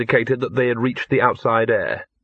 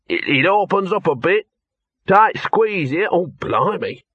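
higher, muffled, as from inside a hole; 7 semitones higher, slower than usual. Acted. Dog reporting from inside the rubble, muffled. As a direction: squeeze the words out from a tight tunnel. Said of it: "a muffled voice said".

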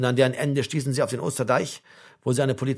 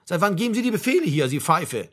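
higher, indignant sergeant; angry telling-off; 3 semitones higher than usual. Acted. Sergeant berates Ludwig for giving orders, angrily. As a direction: dress down a subordinate.

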